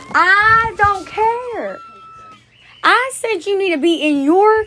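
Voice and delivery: playful scolding of a pet; fond, fed-up telling off; loving exasperation. Acted.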